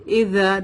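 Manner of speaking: اذا with ذ as a soft th, no buzz; soft dhal. Shown as a demonstration. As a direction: say the ذ in اذا with tongue tip on upper teeth. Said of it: "this is ذال". (اذا میں نرم ذال، بغیر buzzing)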